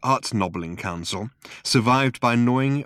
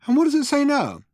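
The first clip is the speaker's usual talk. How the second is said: Arthur. A narrator's reading. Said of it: "asked Arthur".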